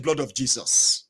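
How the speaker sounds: low, slow echoed prayer; daughter's response. Retold or imitated. Daughter joining mother's prayer, low slow response. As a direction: imitate a child dutifully chanting along, low and slow. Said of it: "Your daughter will be saying".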